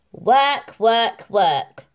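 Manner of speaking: sing-song the chores; Jack the mouse. A narrator's reading. Mouse Jack complains about Cinderella's work. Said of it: "said Jack".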